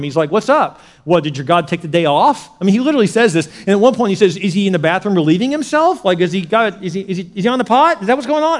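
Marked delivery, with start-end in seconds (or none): 0.3-2.5 mock the rival worshipers, raised voice; playful loud jeer; taunting. Elijah taunts the Baal worshipers over their absent god, taunting. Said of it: "He begins to taunt them". 4.4-8.6 mocking questions, pitched up and climbing; taunting. Elijah needles Baal's followers about their god, taunting. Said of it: "he's taunting him".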